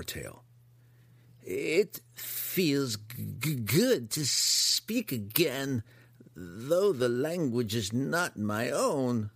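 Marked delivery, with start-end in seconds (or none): 1.4-9.3 high, slow halting monster; grotesque monster voice. Acted. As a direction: savour each slow word. Hookar speaking again gratefully.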